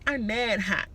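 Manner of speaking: mock the classmate's catchphrase; Jersey girl. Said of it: "she used to say it for everything".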